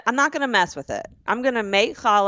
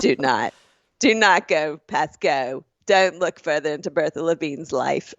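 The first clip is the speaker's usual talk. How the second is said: measured mock New York mafia warning; New York accent; 4 semitones lower than usual. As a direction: lightly play a New York mobster warning someone off. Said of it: "I get into my New York accent".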